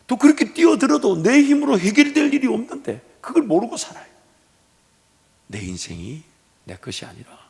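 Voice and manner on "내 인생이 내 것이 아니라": hushed whisper, barely voiced; soft preacher's whisper. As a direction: breathe it out like a secret. Preacher whispers God's ownership.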